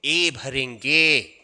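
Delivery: ए भरेंगे stretched very slow; slow teacher answer. Shown as a demonstration. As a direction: drag the answer out for the class. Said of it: "तो क्या भरेंगे?".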